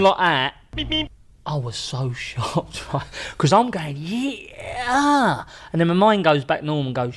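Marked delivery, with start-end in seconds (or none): 0.8-1.1 high-pitched cartoon beeps; Roadrunner. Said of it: "You know Roadrunner?". 4.6-5.4 long, high, loud drawn-out cry; charging mock yell. Retold triumphant charge at the player.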